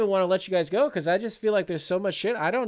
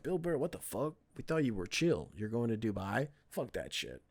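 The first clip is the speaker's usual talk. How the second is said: 1 mocking fans; 5 semitones lower, 9 dB quieter than usual. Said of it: "They're like".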